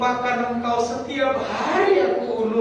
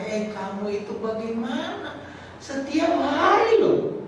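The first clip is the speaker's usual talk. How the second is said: voicing God; 3 semitones higher than usual. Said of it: "hari ini Tuhan berkata".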